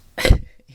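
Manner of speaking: short sudden burst of laughter. Real, not acted. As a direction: burst out laughing at your own impression. Laughs after imitating her husband.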